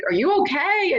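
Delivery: high-pitched anxious question; concerned husband. Retold or imitated. Husband asking his crying wife, imitated concern. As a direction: imitate a worried partner checking in.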